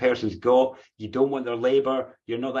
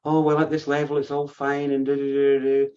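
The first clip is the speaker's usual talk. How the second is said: airy mock high-mindedness, held on one level note; lightly mocking, detached sing-song; high-minded; 3 semitones higher than usual. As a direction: breezily wave it all away, trailing into do-do-do. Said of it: "retreat into that high-minded view and be like".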